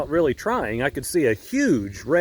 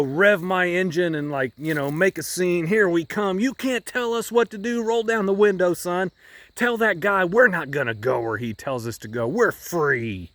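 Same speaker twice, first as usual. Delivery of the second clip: lightly voiced belligerent driver revving up; militant driver; 3 semitones higher than usual. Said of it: "this militant".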